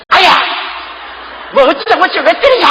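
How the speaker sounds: high, loud indignant outcry; mock angry yelp. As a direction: yelp in pain and snap back in protest. Acted quarrel of hurt believer. (맞고 화내며 소리치는 성도)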